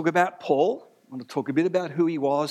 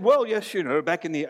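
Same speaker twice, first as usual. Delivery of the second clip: mildly imitated English academic; English accent. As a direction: give the professor a hint of English accent. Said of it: "that's an English accent".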